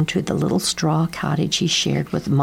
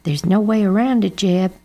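sighing; 3 semitones higher, 3 dB louder than usual. Acted. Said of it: "said Mama with a sigh".

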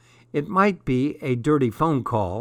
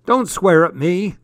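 loud, raised-pitch telling-off; scolding dad; 6 semitones higher, 6 dB louder than usual. A narrator's reading. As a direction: reprimand sharply, louder and higher. Dad scolds daughter for swearing.

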